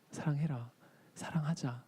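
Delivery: whispered, tender plea; soft whisper. Retold or imitated. God pleading for love, whispered. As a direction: breathe the words gently. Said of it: "이렇게 얘기하시는 거예요".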